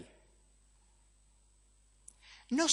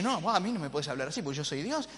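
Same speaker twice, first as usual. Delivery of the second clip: Dios enojado fingido; faster than usual. Pretend. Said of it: "Se enoja".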